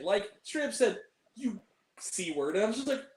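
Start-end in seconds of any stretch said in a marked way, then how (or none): 1.3-2.6 low, slow mock mutter; imitating a man's muttered insult, softer and drawn out. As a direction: mutter it slowly under your breath. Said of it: "he muttered something to the woman".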